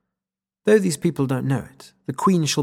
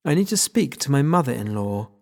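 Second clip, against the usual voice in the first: posh voice. Acted. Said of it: "I say in as posh a voice as I can muster".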